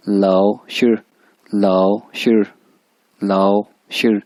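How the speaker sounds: "शिर" ending with a clear retroflex r; slow teacher model of "लाओ शिर" with the r sound; said with shir. Shown as a demonstration. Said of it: "मैं इसको शिर के साथ जो प्रोनाउंस करता हूँ". ("शिर" में र साफ़ बोलते हुए)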